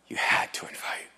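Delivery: whispered echo of the line. Shown as a demonstration. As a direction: breathe it out as a whisper.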